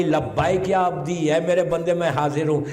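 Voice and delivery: a measured answer from heaven. Acted. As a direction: lean into each word, unhurried. God answers Moses again.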